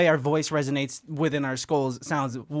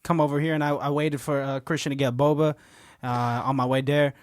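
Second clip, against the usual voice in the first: impression of a friend. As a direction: mimic his laid-back talk. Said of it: "This is, this is good, Christian".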